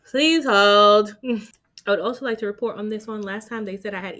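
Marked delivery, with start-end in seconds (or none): 0.0-1.2 please hold, laughed out loud; laughing please hold. Real, not acted. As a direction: giggle through please hold. Laughs while putting on hold.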